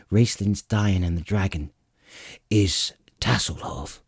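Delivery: succinct. Acted. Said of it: "Flint said succinctly".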